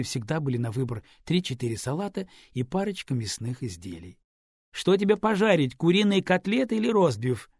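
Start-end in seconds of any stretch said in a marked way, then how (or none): 4.7-7.5 higher and louder, called across the flat; called out from the kitchen; calling from kitchen. A narrator's reading. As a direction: shout it from another room. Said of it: "крикнула она из кухни".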